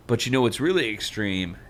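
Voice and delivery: a hint of a laid-back youth pastor. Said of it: "cool youth pastor ... is like".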